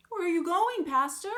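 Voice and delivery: the sexton calls out to the stuck pastor, loud and high; calling out. A narrator's reading. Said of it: "he called".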